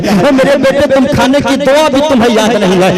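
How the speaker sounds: high, loud tender mother's plea, preached; loving mother. Acted. Mother comforting her crying infant, hammed-up tender pleading. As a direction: speak as a mother soothing her hungry baby. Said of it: "अपने सीने से लगाती है और कहती है".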